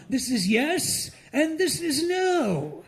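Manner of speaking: prim British colonial teaching; British accent. Retold or imitated. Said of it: "the British that tried to teach".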